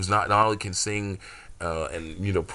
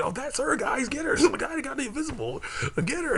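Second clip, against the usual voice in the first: higher, hammed-up crewman calling out; lightly voiced excited crew. A crewman spots her and shouts to grab her, lightly voiced.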